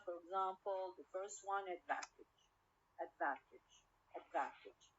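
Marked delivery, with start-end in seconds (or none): 1.7-4.9 advantage stressed on VAN, falling; stress on second syllable. Shown as a demonstration. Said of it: "stress on the second syllable".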